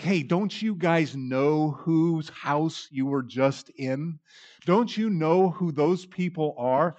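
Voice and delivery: grumbling critics mocking Jesus with disdain; scornful Pharisees. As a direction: sneer at the teacher with hammed-up disdain. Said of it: "you can hear the scorn, you can hear the disdain and the self-righteousness".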